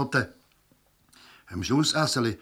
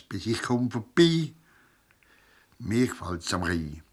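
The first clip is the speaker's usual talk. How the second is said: performed Basel dialect poem, spoken with swing; dialect verse recitation. Acted. Performer recites his Rhine poem to the crowd in measured verse. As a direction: recite the verses to the audience on stage.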